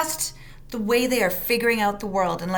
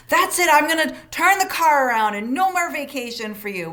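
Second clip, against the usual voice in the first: exasperated, a bit higher and louder; mock parent threat; 4 semitones higher, 4 dB louder than usual. Fed-up parent threatening to turn the car around, mock angry. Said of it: "we say things like".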